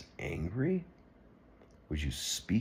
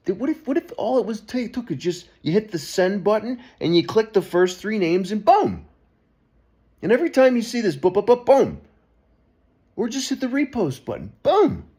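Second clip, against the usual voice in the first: much higher and louder, building to boom; excited build-up; 14 semitones higher, 8 dB louder than usual. Real, not acted. Urging viewers to hit send, rising excitement. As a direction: pump them up, punch each boom.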